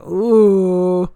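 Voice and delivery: long drawn-out mock-scandalized ooh; imitated crowd "ooh". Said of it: "everyone's just like".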